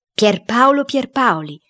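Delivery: slow, high-pitched call to a spirit; summoning cook. A narrator's reading. Cook checking the spirit is there, calling slowly.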